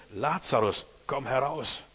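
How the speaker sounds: measured mock shout to someone entombed; loud call. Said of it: "rief er mit lauter Stimme".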